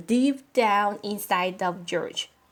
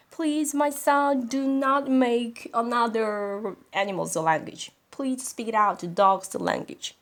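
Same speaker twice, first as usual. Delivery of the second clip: desperate plea; 4 semitones higher than usual. Acted. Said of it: "desperate mom's face".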